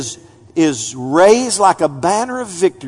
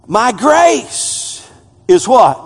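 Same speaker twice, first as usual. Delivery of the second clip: slow question; 5 semitones higher, 4 dB louder, much slower than usual. Shown as a demonstration. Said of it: "Catch this".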